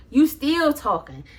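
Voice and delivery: slow, stretched-out exasperation; mildly incredulous, slow retold jab; drawn-out jab. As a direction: drag it out in disbelief.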